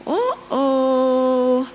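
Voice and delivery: drawn-out, sing-song uh-oh; warning uh-oh. Acted. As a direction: sound a mock alarm, holding the last note. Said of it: "introspective awareness is gonna look and say".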